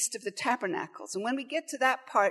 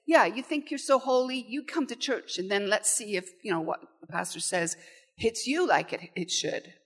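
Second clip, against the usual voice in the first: mocking. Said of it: "And there's this mocking".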